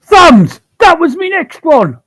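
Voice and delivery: loud, eager outburst; excited shout. Real, not acted. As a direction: blurt out the guess triumphantly. Player excitedly guessing the curse.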